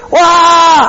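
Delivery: piercing high loud cry; the prince's desperate cry to his father; loud wordless shout. Retold or imitated. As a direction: scream out with everything you have. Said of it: "ככה הוא צעק, צעקה חזקה".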